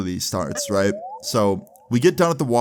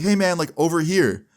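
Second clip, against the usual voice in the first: yelling across; 7 semitones higher than usual. Retold or imitated. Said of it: "I yelled over to him".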